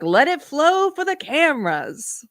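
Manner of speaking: high, slow mock-gushing voice; mocking a tearful celebrity playing to the cameras; mocking impression. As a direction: send her up, pitched high and drawn out. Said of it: "She's like".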